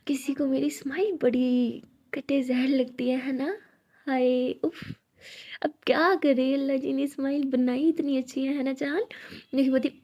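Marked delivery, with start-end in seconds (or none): 0.1-9.0 slow, teasing brag about her own smile; smug playful taunt. Acted. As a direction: show off your smile to tease her, slowly. Abeera teasing Anokhi about smile.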